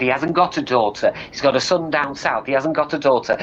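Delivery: mildly indignant mother; indignant denial. Acted. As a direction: insist he's got it wrong, a touch heated. Mother disputes his news in retold row.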